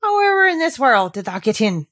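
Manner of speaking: gruff Yorkshire gardener bursting with curiosity; old man who can't help asking; curious old gardener. Acted. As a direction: blurt it out, dying to know. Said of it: "overpowered by curiosity".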